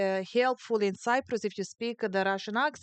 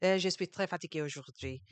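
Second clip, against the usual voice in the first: put-on French accent; 3 semitones lower, 4 dB quieter than usual. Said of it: "do French".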